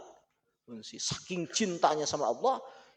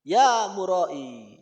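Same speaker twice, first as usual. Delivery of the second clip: slow, louder mock calling out; a slow, louder taunt at Malik bin Dinar; woman calling out; 2 semitones higher, 7 dB louder, slower than usual. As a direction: drag out the taunt like a mocking woman. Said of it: "Ada seorang cewek ngomong ke Malik bin Dinar".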